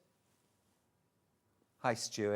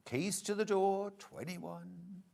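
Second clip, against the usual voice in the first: bingo caller; 5 semitones higher, 6 dB quieter, slower than usual. Retold or imitated. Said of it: "they don't do the calling anymore".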